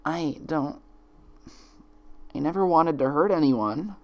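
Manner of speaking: put-on high trembling young mare; tearful Twilight. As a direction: plead through held-back sobs. Twilight near tears.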